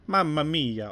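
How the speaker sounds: a quick mock Italian "Mamma mia"; Italian accent. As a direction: slip into a jokey Italian exclamation. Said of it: "Oh shit, wrong accent".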